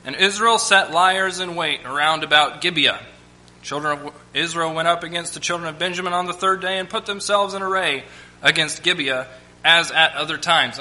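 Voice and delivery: measured Bible reading voice; preacher reading scripture to the church. Acted. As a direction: read the passage with weight.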